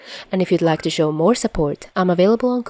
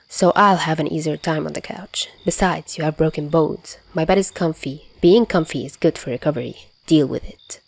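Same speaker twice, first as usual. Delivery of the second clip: soft gremlin Chuya voice. Acted. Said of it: "now he's a soft gremlin".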